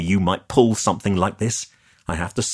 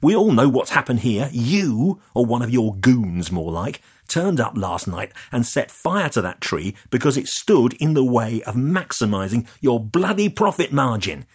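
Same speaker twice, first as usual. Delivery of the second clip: loud, higher, heated accusation; angry accusation; 6 semitones higher, 3 dB louder than usual. Acted. Leah accusing the developer of arson, loud and heated. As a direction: hurl the blame at him, voice climbing.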